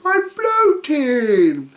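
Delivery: high, slow, loud fretting; worried. Acted. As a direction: float off in alarm. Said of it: "cried Mister Worry".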